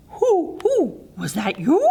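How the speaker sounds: lightly voiced owl, hooting the who. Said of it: "hooted the owl".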